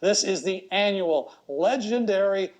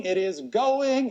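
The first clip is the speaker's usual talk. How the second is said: slow drawn-out going call; much slower than usual. Real, not acted. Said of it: "as soon as I stop stalling".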